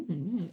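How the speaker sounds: small hummed murmur to herself; imitated silent-reading hum. Author showing her silent reading, humming to herself. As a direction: mime reading silently with little hums. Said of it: "me going".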